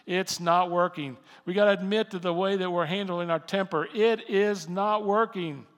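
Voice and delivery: from steady to loud, rising exhortation; building preaching. Acted. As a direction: hammer each point harder.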